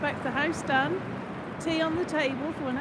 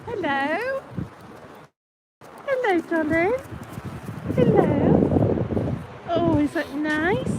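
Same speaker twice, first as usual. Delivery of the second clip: talking to a dog; 3 semitones higher, 5 dB louder, much slower than usual. Real, not acted. Woman greets a fluffy dog.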